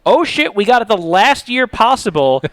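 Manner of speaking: hammed-up frantic recap; mock panic. Host reliving the season's roller coaster, mock panic.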